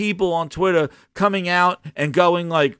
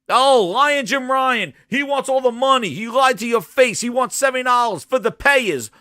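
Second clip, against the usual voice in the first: mock outrage; 5 semitones higher than usual. Acting out podcasters' outrage at Sony boss.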